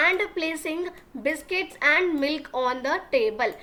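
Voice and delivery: very slow, word by word for learners; slow classroom dictation reading; slow read-aloud. Shown as a demonstration. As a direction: spell the sentence out slowly for the class. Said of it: "teacher reads the line".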